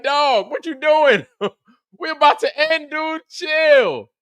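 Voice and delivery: high, loud, laughing and slow; laughing plea. Retold or imitated. Calming an angry guest near the end, laughing hard. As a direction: plead with him to chill through laughter. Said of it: "I was like".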